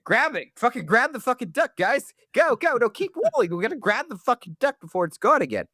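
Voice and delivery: acted scramble, pitch pushed well up; mock panic. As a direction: call out orders in hammed-up urgency. Acts out crew chasing the duck.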